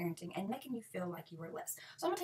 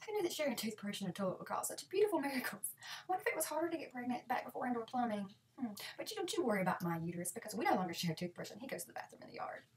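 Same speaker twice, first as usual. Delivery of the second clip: mock naive. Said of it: "Just tell them".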